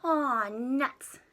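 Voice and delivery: mild disappointment. Acted. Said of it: "Jimmy muttered".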